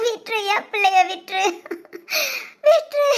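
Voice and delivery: crying, begging to be let go; sobbing plea. Acted. Daughter begging her lover's mother, sobbing.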